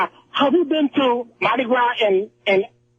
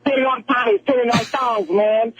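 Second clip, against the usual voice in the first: put-on "panties" stretched out in the caller's accent; drawled panties on request. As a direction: say "panties" slowly and with relish, hamming up the accent. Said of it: "Say the word, say the word panties".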